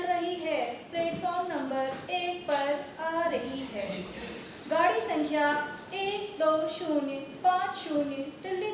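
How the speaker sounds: indian station announcement. Acted. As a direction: announce trains over the speaker. Railway announcement performed.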